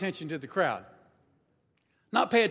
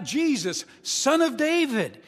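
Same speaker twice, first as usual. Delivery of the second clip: louder, higher call across the crowd; a beggar's call to the passing Jesus; 4 semitones higher, 4 dB louder, slower than usual. Retold or imitated. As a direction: stretch it out to reach him. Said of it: "this beggar starts shouting, yelling out".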